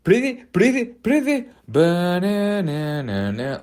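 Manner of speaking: very high silly babbling voice, slowed at the end; mock Truffaut. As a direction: babble like a giddy Frenchman. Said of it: "Truffaut's sitting there with Spielberg going".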